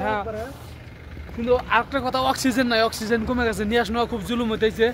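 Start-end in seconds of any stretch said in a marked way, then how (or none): 2.3-4.9 short of breath in thin air; gasping between words; breathless at high altitude. Real, not acted. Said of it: "দম বন্ধ হয়ে গেছে".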